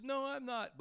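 high, protesting retort; indignant denial. Retold or imitated. Peter answering his second accuser, indignant denial. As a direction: throw the accusation off, pitch high. Peter denying Jesus again.

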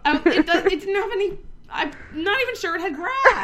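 high laughing protest. Real, not acted. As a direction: laugh through the words. Laughing at treeless island.

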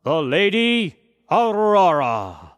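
slow, loud formal proclamation; herald's announcement. A narrator's reading. Herald announcing the Lady Aurora to the crowd, loud and slow. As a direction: announce her grandly to the hall. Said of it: "the heralds announced".

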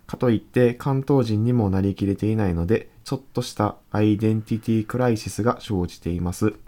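measured radio mail reading; listener letter read-aloud. Acted. (ラジオのお便り朗読)

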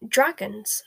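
startled, broken-up splutter; mildly aghast, halting between words. A narrator's reading. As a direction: stammer in disbelief, word by halting word. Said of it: "spluttered the Prime Minister".

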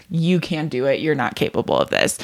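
low, dismissive put-down; curt mean-girl tone, pitch sinking; rude inner voice. Acted. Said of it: "which is really rude".

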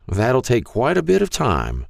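put-on high, frail old man voice; Mister Hall's frail voice. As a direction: speak like a frail elderly shopkeeper. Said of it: "a frail voice said".

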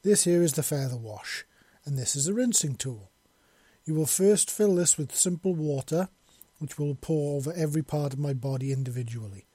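imperious mistress giving instructions; a hint of haughty authority; lightly voiced bird mistress. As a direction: instruct a servant, firmly and precisely. Bird mistress instructs her servant.

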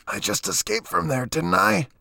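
very high, squeezed answer; choked, high-pitched insistence; strangled voice. A narrator's reading. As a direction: protest through a pressed throat. Man choked under staff, answering.

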